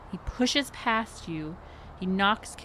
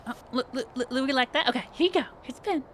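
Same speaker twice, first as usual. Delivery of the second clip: very high, fast, gushing perky voice; bubbly HR lady; 6 semitones higher, much faster than usual. Acted. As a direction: chirp it out like an overeager hostess. GM keeps playing Becky.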